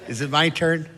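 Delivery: dopey, lightly voiced cousin; lightly mocked clueless cousin. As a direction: play the dim cousin who's lost. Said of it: "Then get to the cousin".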